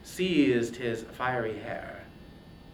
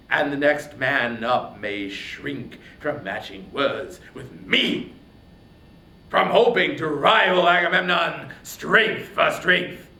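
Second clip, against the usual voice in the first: a proud, scornful king lashing out, louder; scornful, swelling royal fury; angry king; 6 dB louder than usual. Acted. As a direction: Agamemnon taunting Achilles in contempt. Agamemnon's speech to Achilles.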